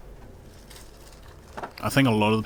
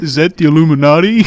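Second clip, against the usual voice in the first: high laughing question; 7 semitones higher, 13 dB louder than usual. Real, not acted. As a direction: blurt it out through laughter.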